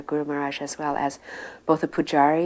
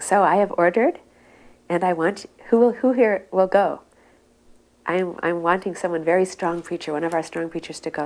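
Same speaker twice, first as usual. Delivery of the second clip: raised, strong urging voice; forceful guru's call; 2 semitones higher, 5 dB louder than usual. Retold or imitated. Guru urging his disciples to preach in the West, forcefully. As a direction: urge them like a stern guru.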